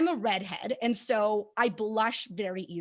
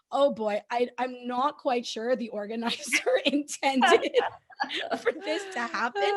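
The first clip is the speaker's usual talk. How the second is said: laughing inner voice. Retold or imitated. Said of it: "And I'm going".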